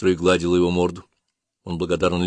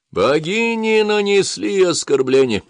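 high, slow ranting shout; yelling priest; 12 semitones higher, 4 dB louder, slower than usual. Acted. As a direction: cry it out to the crowd. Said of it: "завопил он".

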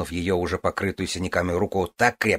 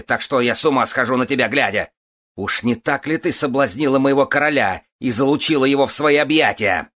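angry berating; 6 semitones higher, 6 dB louder than usual. A narrator's reading. Husband berates fallen wife.

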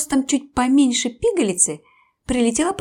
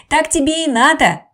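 gloating shout; 5 semitones higher, 6 dB louder than usual. Acted. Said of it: "Одни кричали".

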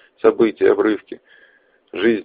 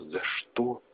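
whisper; 4 semitones higher, 15 dB quieter than usual. Acted. Dying man's silent question.

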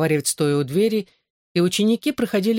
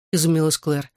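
ordinary delivery

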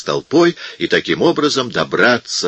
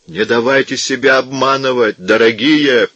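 higher, humble pleading tone; meek voice; 5 semitones higher than usual. A narrator's reading. Monk meekly tries to calm the hostile crowd. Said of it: "проговорил он смиренным голосом".

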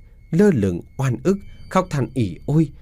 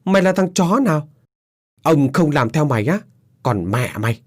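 higher, rough angry yell; angry shout back; 4 semitones higher than usual. A narrator's reading. Young man's father yells back at the young disciple in anger. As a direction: snap back at the stranger furiously. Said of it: "bực mình quát lại".

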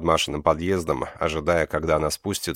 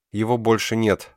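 sobbing; 6 semitones higher, 3 dB louder than usual. Acted. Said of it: "всхлипнула Маша".

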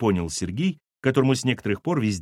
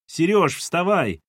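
higher-pitched wake-up call; 6 semitones higher, 3 dB louder, slower than usual. Acted. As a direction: call to someone in another room. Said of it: "прокричала откуда-то Кира".

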